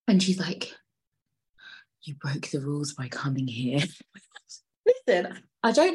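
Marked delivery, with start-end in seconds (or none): 2.0-3.8 soft-edged, slightly lowered acted line; acting the girlfriend. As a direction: play her confronting the dad, voice held down. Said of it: "my acting is on point".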